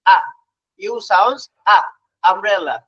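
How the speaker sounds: short open "আ", then "আমব্রেলা"; letter name "ইউ", its sound "আ"; phonics U sound. Shown as a demonstration. Teacher answering what U sounds like, short crisp "আ". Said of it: "ইউ sound শিখবে কি".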